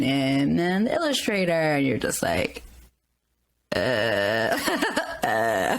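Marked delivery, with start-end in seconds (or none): 3.8-5.8 laughing. Real, not acted. Exasperated laugh at the cost.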